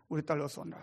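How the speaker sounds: father greeting his runaway daughter, tenderly; tender welcome. Retold or imitated. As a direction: gently welcome a lost child back.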